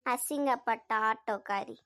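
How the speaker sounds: slow, low teasing jeer; gloating sibling tease; mocking taunt. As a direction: draw the jibe out slowly. Sister taunts the scolded sibling.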